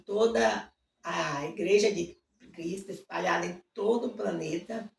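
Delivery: earnest spoken prayer to God. Acted. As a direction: pray sincerely for the pastors. Begins a prayer.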